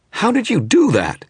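high, loud, furious snarl. Acted. The stung image snarls at the wizard, furious. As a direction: spit it out in shocked rage. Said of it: "it snarled".

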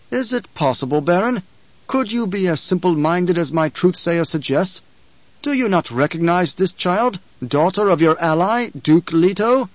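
a ruler scolding his vassal; cold emperor. A narrator's reading. Emperor voiced by narrator.

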